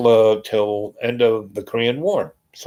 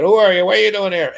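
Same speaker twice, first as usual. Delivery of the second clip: demanding shout; 10 semitones higher, 5 dB louder, faster than usual. Retold or imitated. Armed men challenge them.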